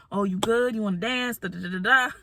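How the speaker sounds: imitating him in a light country accent. Man asking her to dance, in a lightly imitated country accent. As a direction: put on a mild country accent. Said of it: "That was my country accent".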